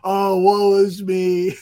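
whiny, self-pitying mock lament; mock whining. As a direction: whine it like a drama queen. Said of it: "don't go telling me".

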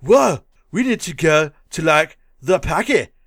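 mock surfer-Canadian accent; Theodore Logan. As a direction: exaggerate a dude-like Canadian accent. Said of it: "like, a Canadian accent".

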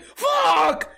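high shrieked curse in fright; terrified high-pitched yell. Retold or imitated. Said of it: "In a weird, like, terrorized, like, high-pitched voice".

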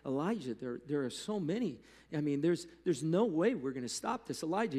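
mildly acted panicky servant; freaking out. Servant to Elijah about the surrounding army, mildly freaking out. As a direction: retell it with a touch of mock alarm. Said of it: "he's, like, freaking out".

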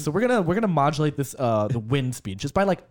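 fast-talking mock tutorial enthusiast; earnestly absorbed game guide, parodied at a quick pace; really into it. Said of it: "like, really, really into it".

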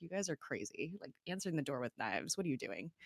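quiet, mildly exasperated imitation; over it. Dad fed up with the knife business, understated exasperation. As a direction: imitate a weary dad, kept soft. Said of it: "he's just so over it".

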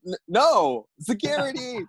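high-pitched drawn-out mock shout; mock calling out. Victim defies thief, calls security, mock shout.

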